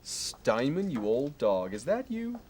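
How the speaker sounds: overdone chummy phone hello; hearty fake greeting. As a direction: greet an old rival like a best friend. Phony friendly greeting on phone.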